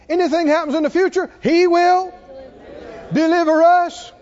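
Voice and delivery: rising preaching climax. Acted.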